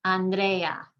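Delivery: "Andrea" with stress on DRE; second-to-last syllable stressed. Shown as a demonstration. Teacher repeating the example, "Andrea" stressed on DRE. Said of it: "emphasizing the second to last syllable".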